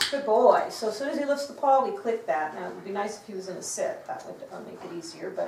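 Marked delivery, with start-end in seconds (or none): 0.1-0.7 loud, falling praise; hearty praise. Real, not acted. Trainer rewarding the dog for lifting his paw, hearty praise.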